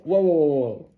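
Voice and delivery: mock urgent whoa; stopping someone. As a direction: throw up a hand and stop them. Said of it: "you go".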